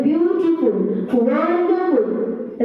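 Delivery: beautiful and wonderful drawn out on their first syllables; stress on adjectives. Shown as a demonstration. Teacher demonstrating stress on adjectives, beautiful and wonderful stretched. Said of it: "this word stress is on that".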